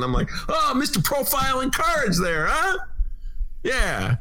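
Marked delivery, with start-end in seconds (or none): 0.5-2.8 sarcastic jab. Retold or imitated. Ben mocks the owner.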